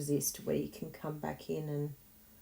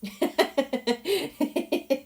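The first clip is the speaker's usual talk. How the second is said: loud high burst of laughter; laughing; 9 semitones higher, 8 dB louder than usual. Real, not acted. Laughing at herself.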